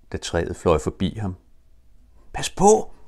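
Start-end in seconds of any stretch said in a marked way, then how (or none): 2.3-2.9 high, urgent warning call; warning shout. Acted. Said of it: "råbte Jakob til de andre".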